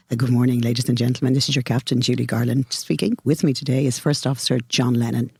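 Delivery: light cabin PA captain voice; airline pilot announcement. Retold or imitated. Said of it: "I'd have to put on my airplane voice now for you".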